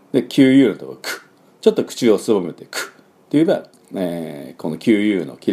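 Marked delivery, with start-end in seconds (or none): 1.0-2.8 ク as a voiceless k with lips slightly rounded; bare k burst for ク, lips pursed. Shown as a demonstration. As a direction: purse the lips a little and release ク.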